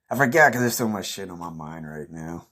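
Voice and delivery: chuckling while admitting forgetting; laughing. Real, not acted. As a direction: laugh through the words. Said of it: "repeated forgot, laughing".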